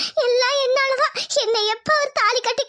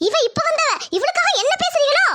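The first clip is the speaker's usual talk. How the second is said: rising higher in angry disbelief; indignant retort; 4 semitones higher than usual. Acted. Lakshmi protesting to her sister-in-law, higher and indignant. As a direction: climb up in pitch, offended.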